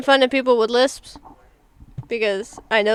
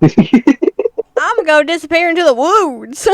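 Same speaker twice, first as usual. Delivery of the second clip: laughing; 7 semitones higher, 4 dB louder, slower than usual. Real, not acted. Joking while laughing.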